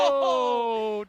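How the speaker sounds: loud, high gasp of shock; big shocked oh; surprised shout. Real, not acted. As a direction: react to a stunning reveal. Reveal of the impostor.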